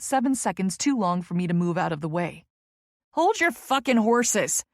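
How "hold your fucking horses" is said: slow, loud yell out the car window; shout. Acted. Tess yelling at the impatient car behind, loud and slow. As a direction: bellow it at the honking driver. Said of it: "I shout out my window".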